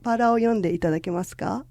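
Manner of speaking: ordinary delivery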